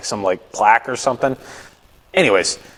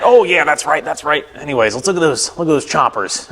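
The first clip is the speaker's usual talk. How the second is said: put-on chummy dentist voice; dentist impression; 4 semitones higher than usual. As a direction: lightly imitate a dentist brushing off a slip. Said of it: "That's how he talks".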